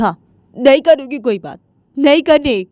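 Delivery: loud, high outburst at the end; stubborn lovers'-quarrel snap; angry refusal. Acted. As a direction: refuse hotly, voice jumping up. Heated quarrel over phone.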